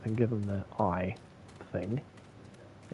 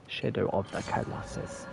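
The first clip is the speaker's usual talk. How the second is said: "Shadow of the Colossus" mumbled softer, words slurred together; 2 semitones lower, 5 dB quieter than usual. Shown as a demonstration. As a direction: slur "Colossus" under your breath. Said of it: "Sorry, I need to enunciate".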